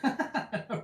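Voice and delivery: breaks into a laugh on the word. Real, not acted. Laughs at his own line.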